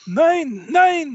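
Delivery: high frantic cries of no; panicked German pleading. Acted. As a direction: plead in terror, loud. GM voices captured German officer.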